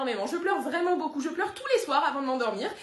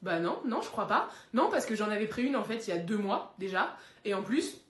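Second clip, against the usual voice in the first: defensive low denial; 3 semitones lower than usual. Acted. Dog denying it smells.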